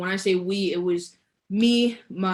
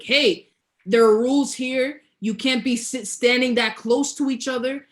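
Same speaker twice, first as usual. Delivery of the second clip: raised voice, mildly imitating an angry yell; retold scolding yell; 4 semitones higher than usual. Pool guard scolding two swimmers standing too close, mildly yelled. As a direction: reprimand them in a higher, mock-shouting voice. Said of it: "starts screaming at us kind of thing".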